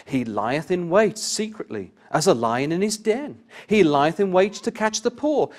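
loud, ringing high psalm reading, slowing on the lion line; fervent scripture reading. Acted. Preacher reading psalm to congregation, loud and fervent. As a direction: proclaim the psalm with full pulpit force.

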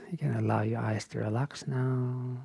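softened meditation-teacher voice with long pauses; unhurried, hushed guidance, leaving space between phrases; guided relaxation. Real, not acted. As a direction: ease them gently out of the practice. Guides the wind-down after practice.

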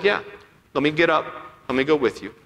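calm, unhurried imagined reply. Retold or imitated. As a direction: agree gently, as an imitation of patient Jesus. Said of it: "Jesus just calmly said".

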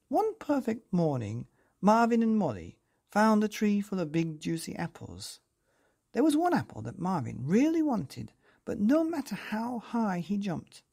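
put-on lively, sing-song storytelling voice for children; bedtime story narration. A narrator's reading. Narrator reading a picture book to children, lively and sing-song. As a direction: read it like tucking kids in.

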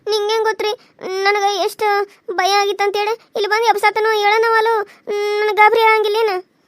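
high, upset and mildly tearful; tearful protest. Acted. Daughter telling husband how scared she was, tearful protest. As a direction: protest as if close to crying. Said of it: "ಮತ್ತೆ ಯಾಕೆ ಅಳ್ತಿದ್ದಿ?".

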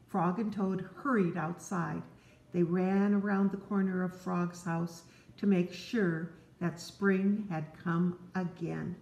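gentle read-aloud to a little one; storybook narration. Acted. Parent reading Frog and Toad to a child, gently. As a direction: tell it like a bedtime story.

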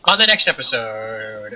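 loud outro announcement; announcer outro. Shown as a demonstration. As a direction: boom it out like a host.

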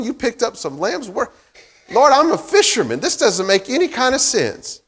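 a fisherman puzzled and a little indignant; baffled Peter. Retold or imitated. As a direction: play Peter scratching his head at the lambs.

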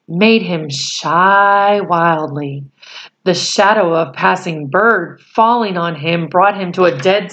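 put-on reading a chapter aloud to children; steady storyteller voice for a class; story narration. A narrator's reading. Reads the novel aloud.

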